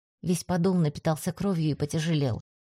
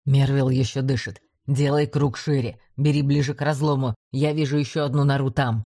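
commander shouting; 4 semitones lower than usual. A narrator's reading. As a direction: shout orders over engine noise. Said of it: "Блайнер крикнул".

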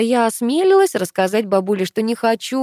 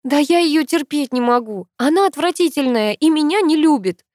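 higher, louder heartfelt outburst; heartfelt exclaim; 8 semitones higher, 4 dB louder than usual. A narrator's reading. Granddaughter admitting she hates her aunt, a sincere outburst. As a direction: blurt it out with full sincerity. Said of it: "искренне воскликнула я".

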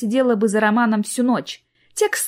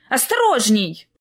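indignant; 7 semitones higher than usual. Acted. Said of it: "возмутилась девушка с селфи-палкой".

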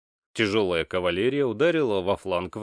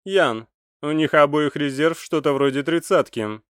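gruff space marine; 6 semitones higher, 5 dB louder than usual. A narrator's reading. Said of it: "сказал Сруазье".

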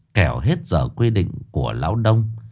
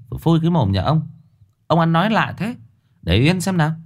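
scolding cut-in; 8 semitones higher, faster than usual. A narrator's reading. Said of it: "nói át đi".

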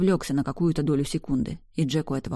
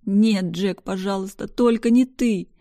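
higher, louder crying, slowing at the end; sobbing plea; 4 semitones higher, 5 dB louder, slower than usual. A narrator's reading. Woman begs not to lose Jack, crying plea. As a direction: beg fate through tears. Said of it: "Я рыдала так сильно".

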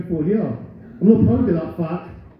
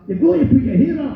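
mock record company nag; 7 semitones higher than usual. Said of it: "my record company's like".

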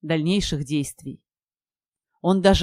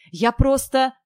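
higher, cut-off excuse; pleading; 6 semitones higher, 3 dB louder, slower than usual. A narrator's reading. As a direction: try pleadingly to explain. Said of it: "взмолился наш герой".

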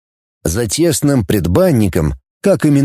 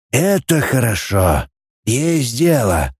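put-on old boss voice; slower than usual. Old chief speaks.

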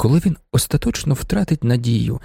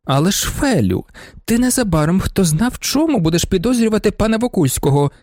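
scolding; 8 semitones higher than usual. Acted. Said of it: "накинулась на неї пані Вонсовська".

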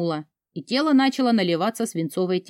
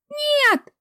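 shrill, very high scream; anguished scream; 3 dB louder than usual. Acted. Heroine screams as she is dragged away. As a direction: tear it out of you as they drag you off.

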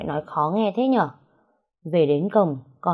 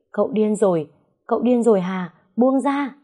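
put-on higher, pleading yell of a scared girl; panicked yell; 4 semitones higher than usual. Diệp yells at Hà to let go of the man. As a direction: shout at her to let go. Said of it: "Diệp cứ hét lên".

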